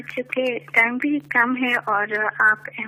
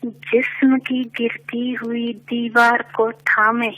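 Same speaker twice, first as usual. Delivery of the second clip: measured poetic recitation, lower; stately nazm recitation; 3 semitones lower than usual. Acted. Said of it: "ایک نظم پیش کرنا چاہوں گی".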